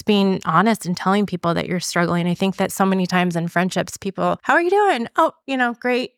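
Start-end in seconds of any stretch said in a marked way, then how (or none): 4.4-5.1 high, breezy how-are-you; chirpy small-talk greeting. Retold or imitated. Friend greeting her at pickup, high and breezy. 5.2-6.1 high, breezy brush-off; fake cheerful. Answering a friend's hello, mock cheerful and high.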